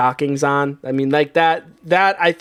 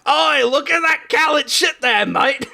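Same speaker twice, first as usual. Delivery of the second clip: exaggerated Scottish heckle, much higher than usual; Scottish accent; 9 semitones higher than usual. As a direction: call out in a mock Scottish accent. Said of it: "it would be a Scottish accent".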